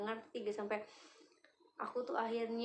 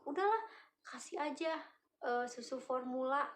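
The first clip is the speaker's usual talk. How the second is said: higher-pitched, mildly exasperated quote of parents; imitated parental scolding; 4 semitones higher than usual. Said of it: "tapi kayak diomelin gitu".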